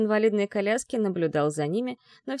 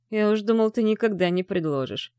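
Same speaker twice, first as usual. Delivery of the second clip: pleased; 2 semitones higher, 3 dB louder than usual. Acted. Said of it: "обрадовался Муромец".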